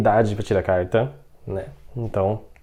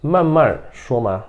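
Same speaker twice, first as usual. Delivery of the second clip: 1 slow model reading; slower than usual. Shown as a demonstration. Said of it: "então nesse caso seria, ó".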